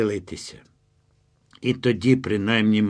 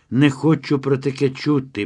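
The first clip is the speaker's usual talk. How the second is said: higher, louder protest; emphatic raised objection; insistent; 6 semitones higher, 5 dB louder than usual. A narrator's reading. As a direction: refuse to listen, voice raised. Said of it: "повторила вона".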